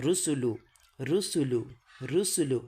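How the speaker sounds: রুসুলু repeated with "oo" in every syllable; measured drill of রুসুলু, falling at each end; teacher repeats রুসুলু clearly for copying; model drill pronunciation. Shown as a demonstration. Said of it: "এভাবে".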